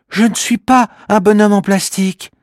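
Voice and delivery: high small voice, indignant; offended little creature. Acted. Kimamila correcting the girl, indignant little creature voice. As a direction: correct her firmly. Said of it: "répond Kimamila".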